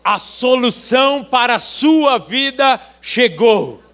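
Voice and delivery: loud, high proclaiming shout; thundering prophet voice. Shown as a demonstration. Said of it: "diga com voz de profeta".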